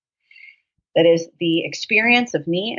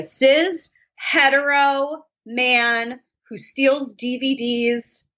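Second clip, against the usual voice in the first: slow mock drawl; 6 semitones higher, much slower than usual. Jokey aside.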